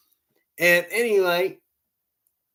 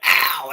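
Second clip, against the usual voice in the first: short, louder "ow"; retold yelp of pain; 5 dB louder than usual. Buddy pulls stuck cigarette off his lip, imitated yelp. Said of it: "and he went".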